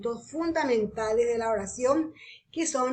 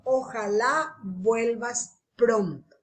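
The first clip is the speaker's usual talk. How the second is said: wishful; slower than usual. Shown as a demonstration. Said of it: "Desiderativas expresan un deseo".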